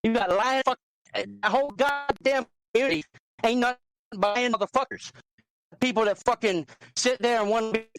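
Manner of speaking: angry rant. Real, not acted. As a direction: vent hard about the liars. Heated rant about the community.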